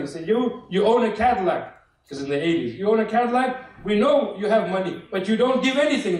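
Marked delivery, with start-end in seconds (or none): 0.3-1.6 higher-pitched mock scolding; mock yelling. Imam accusing a man at a fundraiser, mock yelling. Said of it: "the imam would start yelling". 2.8-6.2 high-pitched, lightly yelled accusation; mock yelling. Imam shaming a man who won't give, mock yelling. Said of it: "the imam would start yelling".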